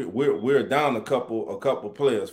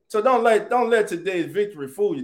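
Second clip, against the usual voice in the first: higher and louder, pressing the point; emphatic warning; 5 semitones higher, 3 dB louder than usual. Real, not acted. Host warning fans after the win, emphatic. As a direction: warn them not to be fooled.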